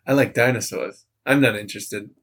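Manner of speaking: put-on comic Australian accent, simple and blunt; Shane Gillis. Contestant abruptly ending a date, imitated Australian accent. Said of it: "the Australian accent a lot".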